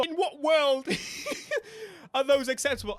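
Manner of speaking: high, loud question broken by laughter; laughing disbelief. Real, not acted. Streamer laughing at ugly fenders, high and loud. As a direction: laugh through the outrage.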